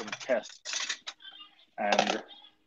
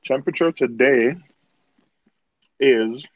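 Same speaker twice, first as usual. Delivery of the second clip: mouth full; 3 semitones higher than usual. Real, not acted. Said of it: "I'm eating some cereal".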